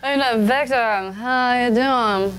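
put-on drunk. Actress slurring a drunk hello to Victor. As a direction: slur it like you've had too many. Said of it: "say it like, uh, you're drunk".

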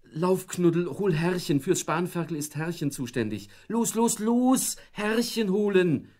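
high and loud, climbing, slowing at the end; wife urging the dog to fetch her husband; urgent urging. Acted. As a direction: push the dog to run, loud and shrill. Wife urges dog to fetch master.

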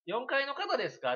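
loud, slow question through a laugh; laughing mock question. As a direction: ask while trying not to laugh. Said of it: "って聞かれたら". (笑いをこらえながら大きくゆっくり問う)

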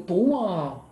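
long, drawn-out "¡Toma!"; sudden exultant exclamation, falling away; triumphant gesture cry. Shown as a demonstration. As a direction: celebrate a won padel point, stretched out. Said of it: "pero es que luego digo".

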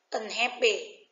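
"Unhappy" with the beat on HAP; second-syllable stress. Shown as a demonstration. Teacher reading answer choices to students, second-syllable stress on "Unhappy". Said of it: "Dấu nhấn vào phần thứ hai".

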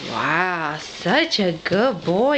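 slow, drawn-out praise with a laugh. Real, not acted. Praising toddler on the stairs.

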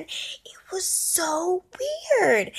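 whispered aside. Real, not acted.

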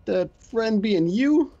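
bad Boston accent, drawn out. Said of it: "my horrible Boston accent".

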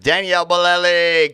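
loud high triumphant name; excited shout. Real, not acted. Name finally recalled.

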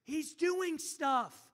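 loud hush, then forced stage whisper; shushing disciples. Acted. Preacher imitates disciples hushing the beggar, shushing. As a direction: shush him and stretch it out insistently. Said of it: "Can you imagine the disciples".

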